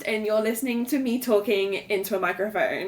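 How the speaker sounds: lightly put-on podcast host voice. Shown as a demonstration. Host demonstrating her show intro, podcast voice. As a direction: introduce yourself as if on mic. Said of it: "your podcast voice".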